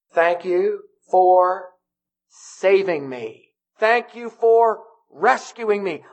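acted thanks. Voices rescued swimmer's thanks.

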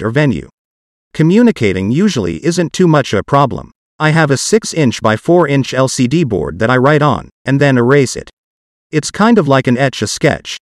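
synthetic text-to-speech voice; computer-generated voice. Real, not acted. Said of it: "my parts will be done with a computer-generated voice".

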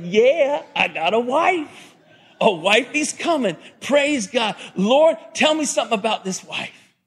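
delighted mock-eager prophet; excited. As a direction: act out an overjoyed young man. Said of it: "he's all excited".

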